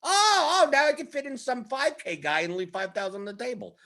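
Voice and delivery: very high "Oh" then lighter; suddenly delighted machine voice; relieved optimizer. Pretend.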